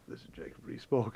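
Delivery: imitating a deputy's discreet whisper. Deputy prompting Gove with who is coming, whispered. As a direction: whisper a name as a private prompt. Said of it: "who would whisper to him".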